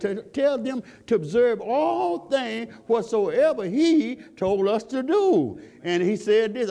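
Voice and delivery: preaching at full force. Acted. Preacher urging the congregation to spread the word, fervent. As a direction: lift the church with fervent preaching.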